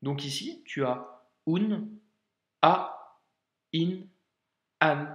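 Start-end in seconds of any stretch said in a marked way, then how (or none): 2.6-5.1 a, in, an each opened by a throat catch; vowels started with a glottal stop. Shown as a demonstration. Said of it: "Hamza égale blocage".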